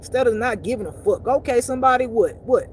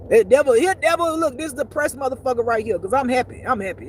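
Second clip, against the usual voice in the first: mock shout to devil; 3 semitones higher, 4 dB louder than usual. Calling out to the devil.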